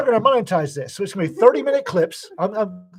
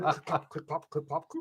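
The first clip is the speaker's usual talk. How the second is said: hoof clip-clop sounds; 10 dB quieter than usual. Shown as a demonstration. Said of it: "coconut, uh, shells on wood".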